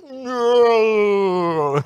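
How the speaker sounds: sudden high loud cry of alarm. Retold or imitated. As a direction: yelp as the dish slips. Dropping a dish in kitchen.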